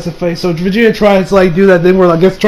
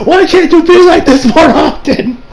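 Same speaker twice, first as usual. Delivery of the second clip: higher, slower pleading wail; mock pleading cry; 9 semitones higher, 3 dB louder than usual. Fan begging Toriyama, higher and slower. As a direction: beg the author, half laughing. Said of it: "and I'm just like".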